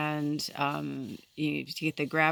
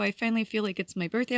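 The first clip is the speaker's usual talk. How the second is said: higher, quick gleeful self-quote; retold excitement; 4 semitones higher, faster than usual. Quoting oneself while making dinner to Christmas music, higher and excited. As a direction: bubble over about your birthday. Retelling own birthday excitement.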